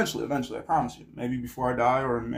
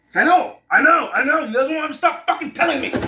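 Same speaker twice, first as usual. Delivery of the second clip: exasperated outburst; 13 semitones higher, 9 dB louder than usual. Real, not acted. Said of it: "mocking viewers' complaints".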